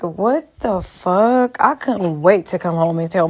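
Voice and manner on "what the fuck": slow disbelief. Retold or imitated. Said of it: "I'm sitting here like".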